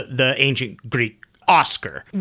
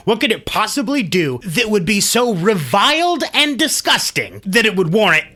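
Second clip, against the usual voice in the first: incredulous outrage; 4 semitones higher than usual. Real, not acted. Indignant rant about cruel parents.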